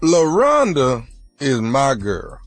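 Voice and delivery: slow, low, street-tough declaration; tough inmate voice. Acted. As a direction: lay it down slow like a con. Prank caller's slow stern claim.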